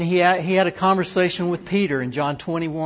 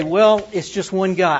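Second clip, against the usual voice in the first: louder, brushing it off as only one guy; dismissive; 4 semitones higher, 6 dB louder than usual. Retold or imitated. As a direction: shrug it off as not worth the time. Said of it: "We say".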